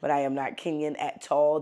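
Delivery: Kenyan accent on not Kenyan at all. Shown as a demonstration. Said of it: "This is how Kenyans say it".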